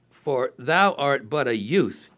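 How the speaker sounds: slow, weighty reading of the verse; slow emphatic reading. Shown as a demonstration. Preacher stressing the king's doubt, slowly and deliberately. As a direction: lean on each word of "For thou art but a youth", slowly. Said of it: "Then once again".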